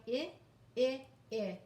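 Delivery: short I, as in "I" said like ih; short I sound. Shown as a demonstration. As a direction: clip the vowel short, ih. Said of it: "working on the short I".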